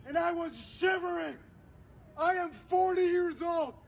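forceful, emphatic oratory with weighty pauses; impassioned protest speech. Real, not acted. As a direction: address the crowd with urgent conviction, hammering key words. Impassioned public speech continues.

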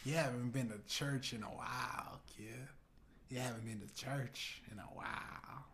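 put-on God with a light southern accent; a touch of southern accent, understated. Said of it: "God has a southern accent".

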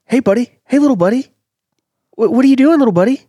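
high, loud Boston tough-guy voice; Mark Wahlberg impression. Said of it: "So Mark Wahlberg is who that was".

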